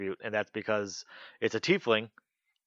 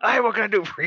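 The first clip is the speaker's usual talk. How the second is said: very high, very loud, shrill salty sailor voice; 11 semitones higher, 8 dB louder than usual. Retelling a game session, the shopkeeper behind the bar greets the players: put-on very salty voice. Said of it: "he talks very salty".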